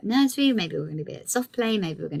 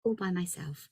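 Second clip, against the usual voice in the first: put-on toddler's answer; 7 dB quieter than usual. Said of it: "And she said".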